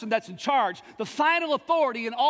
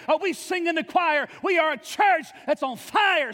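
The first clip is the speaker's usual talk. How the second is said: preaching at full force; 2 semitones higher than usual. Acted. Pastor urging the church to be on fire, full-force preaching. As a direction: rouse the church, climbing in fervor.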